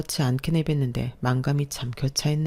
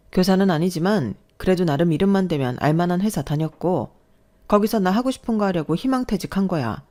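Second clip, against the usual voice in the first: a firm, louder protest; arguing back; 3 semitones higher, 3 dB louder than usual. Acted. Wife arguing back at her husband, indignant. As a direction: stand your ground with him.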